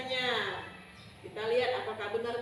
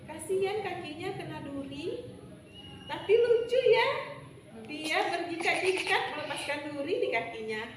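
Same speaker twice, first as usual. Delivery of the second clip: higher, lightly mocking heavenly maidens; bidadari mengejek; 5 semitones higher than usual. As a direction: tease him, ending in laughter. Bidadari menertawakan bujang beji. (bidadari mengejek sambil tertawa)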